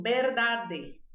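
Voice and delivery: "verdade" with b but keeping a clear final e; "verdade" as beɾdade, one letter off; wrong Spanish ending. Shown as a demonstration. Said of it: "você fala assim".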